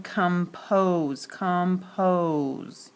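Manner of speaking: compose drawn out on the long O. Shown as a demonstration. Teacher showing the long sound, long O in compose. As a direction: stretch the O in compose. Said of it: "it's the O sound".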